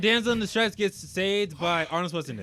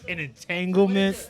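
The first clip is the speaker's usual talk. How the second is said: imitating slow delivery; 3 semitones lower, much slower than usual. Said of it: "Especially the way he's like".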